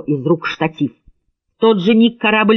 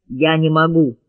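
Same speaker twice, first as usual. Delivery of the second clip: usual speaking voice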